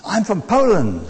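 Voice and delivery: lightly imitated Polish accent; Eastern European accent. Preacher quotes the Polish passenger's reply, Eastern European accent. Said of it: "Eastern European accent".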